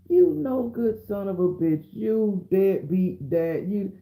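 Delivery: high-pitched mock courtroom scolding; drawn-out insults in a high voice; acted tirade. Judge tearing into a dad over child support, acted scolding.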